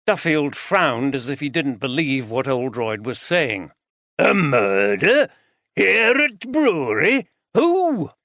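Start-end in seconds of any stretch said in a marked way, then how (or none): 4.2-8.1 higher, louder broad Yorkshire voice; an old Yorkshireman barges in, broad Yorkshire accent. A narrator's reading. Voiced character Duffield.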